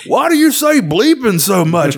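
high, slow, puzzled monster; Sweetums. Acted. Monster questions the swearing chef, innocent high voice. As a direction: ask it as a big innocent puppet. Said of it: "And Sweetums goes".

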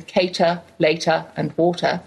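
British non-rhotic endings. Shown as a demonstration. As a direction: drop the r: cater, later, water as cay-tuh, lay-tuh, waw-tuh. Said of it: "Er endings sound like uh".

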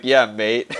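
botched Scouse impression, punched out; the speaker's attempted Scouse. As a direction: belt out a Frenchman's bad Scouse. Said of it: "tries to do, like, a Liverpudlian accent".

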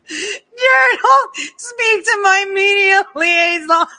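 high, laughing mock of a pompous reply; giggling parody of a self-important brush-off; laughing imitation. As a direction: squeal it through laughter, mocking. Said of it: "Their titles make me die of laugh".

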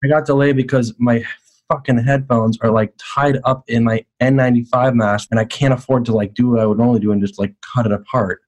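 speaking over the phone; tinny phone call audio; phone line. Real, not acted. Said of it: "I dialed him up".

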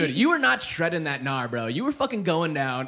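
mock California surfer critique; put-on California skater slang; California bro. Judging a dish as a California bro. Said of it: "like, California bro".

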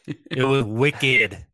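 attempted Boston accent, drawn out slowly; a slow, not very good Boston "wicked". Shown as a demonstration. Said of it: "Did he say wicked in the Boston accent".

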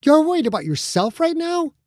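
high, biting snarl. Acted. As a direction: snap back at him in disbelief. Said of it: "Becca snarled at him".

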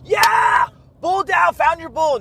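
over-the-top excited mock cheer; mock enthusiasm. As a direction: fake a giddy cheer over the dead bull. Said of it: "Can you show some enthusiasm?".

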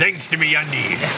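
slow, drawn-out pirate read. Acted. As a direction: stretch it out like a pirate. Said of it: "you sounded like a pirate".

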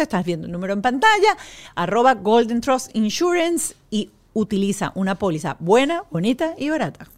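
upbeat sponsor read. Real, not acted. Host recommends health insurance to listeners, ad read. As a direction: sell it like a podcast host.

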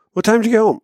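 a lightly voiced suspicious wife; mock wife. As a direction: play the wife checking on him. Wife questioning him.

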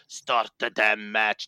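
slow, bad Arnold accent; a badly faked Arnold accent, dragged out. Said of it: "That's a terrible accent".

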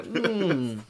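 drawn-out thinking hum; mock pondering. Assistant stroking his chin at a customer, mock pondering. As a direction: pretend to contemplate it deeply. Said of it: "as if I'm thinking".

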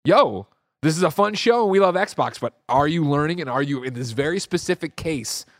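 a hint of a chummy interviewer; imitating cohost. Cohost pressing Xbox boss about frame rate, light imitation. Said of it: "you being like".

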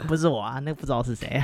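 nasal pinched-nose voice; pinching nose. Acted. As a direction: talk with nose held shut. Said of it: "我来捏着鼻子讲话".

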